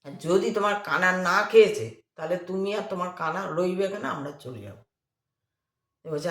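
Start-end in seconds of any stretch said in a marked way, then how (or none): 0.1-4.8 angry. Retold or imitated. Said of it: "একজন খুব রেগে বলছে".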